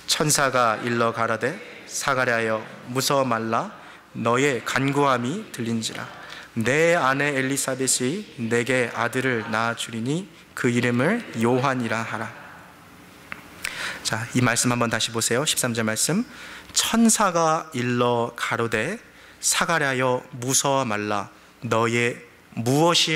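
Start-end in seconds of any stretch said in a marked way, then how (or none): 0.1-12.4 slow, measured verse reading; congregational scripture reading. Acted. Pastor leading the congregation through Luke, measured reading. 16.7-22.2 slow, measured verse reading; congregational scripture reading. Acted. Pastor leading the congregation through Luke, measured reading.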